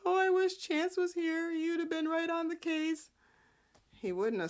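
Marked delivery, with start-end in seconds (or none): 0.0-3.1 high wistful sigh of a voice; high mock-wistful Abby. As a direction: pine for him in a higher put-on voice. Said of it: "Abby's like".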